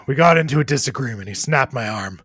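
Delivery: hint of a wince in the voice; understated, sighing pain, falling away at the end; pained Riggs. Injured man admits his arm got snapped, mildly pained. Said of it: "Riggs kinda grimaces and says".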